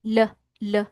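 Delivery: short, separate L sounds; isolated L sound. Shown as a demonstration. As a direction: sound out the L on its own, twice. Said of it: "So, try natin".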